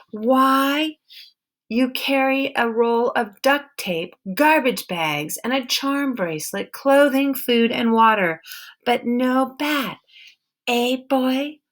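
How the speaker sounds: a suspicious woman with a hint of an accent, guarding her barn; stern wary woman. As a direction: hold your ground and interrogate him. Woman interrogates Peter.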